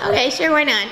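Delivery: high, giggly agreement; laughing acceptance. Retold or imitated. Laughing acceptance of silly role.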